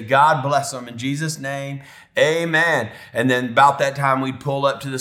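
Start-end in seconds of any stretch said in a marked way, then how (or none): 0.0-2.9 imitated prayer sign-off, a little lifted; father wrapping up a prayer; dad's prayer. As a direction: close the prayer firmly on the amen. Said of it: "And then he'd say".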